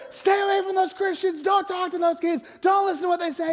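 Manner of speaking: imitating friends shouting him away from the kids; retold yelling. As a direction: play the friends calling him back. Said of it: "his loved ones are yelling louder and louder".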